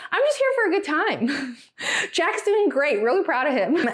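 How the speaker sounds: lightly imitated Cockney-Australian dad; Cockney-Australian accent. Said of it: "the Cockney version of the Australian accent".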